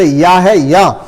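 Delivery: drawn-out syllable या, spoken slowly for practice; slow demo. Shown as a demonstration. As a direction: say या slowly and clearly. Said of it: "इसको आप बोल करके practice कर सकते हो".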